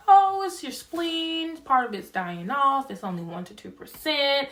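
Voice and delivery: breezy, offhand reassurance; nonchalant surgeon. Retold or imitated. Surgeon casually tells her about her spleen, offhand. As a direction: shrug it off lightly, a mild imitation. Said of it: "said it ever so nonchalantly".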